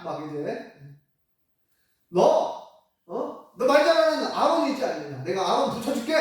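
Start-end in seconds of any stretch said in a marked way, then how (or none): 2.1-6.1 annoyed scolding. Retold or imitated. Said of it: "하나님께 화를 내십니다".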